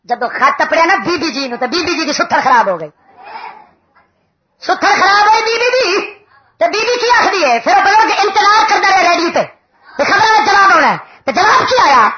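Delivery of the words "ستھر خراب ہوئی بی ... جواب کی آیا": animated preaching. Real, not acted.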